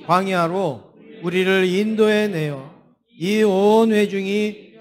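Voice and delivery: slow, measured verse reading; drawn-out congregational reading pace; scripture reading. Real, not acted. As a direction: read the verse out slowly, phrase by phrase. Reads the Bible verse aloud.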